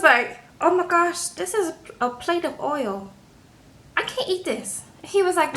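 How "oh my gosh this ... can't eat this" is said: high, softer tipsy fussing; mildly hammed-up drunken dismay; tipsy complaint. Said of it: "but she was gone".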